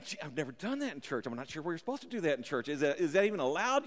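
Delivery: soft, quick doubting aside; hesitant churchgoer. Retold or imitated. Preacher voices a churchgoer unsure shouting is allowed, hushed. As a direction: say it low and fast, as private worry.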